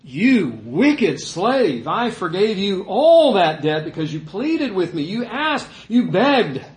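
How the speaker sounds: angry master's rebuke. Acted. The master rebukes the unforgiving slave, angrily. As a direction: lay into the servant, drawing out each word. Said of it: "the master said".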